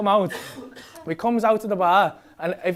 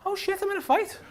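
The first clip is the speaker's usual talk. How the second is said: high, softer panicky realisation; mock alarm; 11 semitones higher, 6 dB quieter than usual. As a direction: act out sudden dread, comically. His alarmed realisation, retold.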